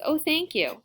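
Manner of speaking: put-on high, gushing girl's thanks; delighted, high-pitched child voice; grateful cry. A narrator's reading. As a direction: thank her like a thrilled kid. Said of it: "Rosa cries".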